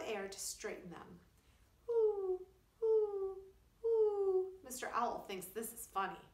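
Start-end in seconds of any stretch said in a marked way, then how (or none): 1.9-4.6 high, loud hooting owl; long high owl hoots. A narrator's reading. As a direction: hoot like a great horned owl.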